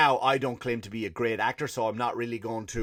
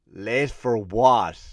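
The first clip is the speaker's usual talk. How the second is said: slow deadpan cliche reply; 3 semitones lower, 4 dB louder, much slower than usual. Retold or imitated. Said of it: "he would say".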